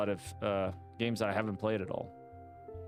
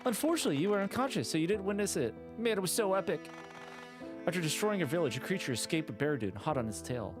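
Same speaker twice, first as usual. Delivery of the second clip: higher, eager storyteller NPC; excited villager; 5 semitones higher than usual. Acted. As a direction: gush about the epic battle. Excited NPC recounts battle.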